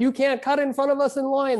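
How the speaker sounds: put-on old woman voice, high, indignant, scolding yell. Acting out grandmothers yelling in the Soviet Union, retelling a yell. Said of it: "the ones who yelled like".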